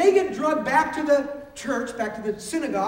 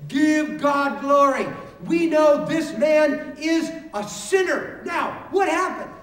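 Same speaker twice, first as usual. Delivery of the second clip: stern demand; 4 dB louder, slower than usual. Acted. Leaders demand the healed man confess.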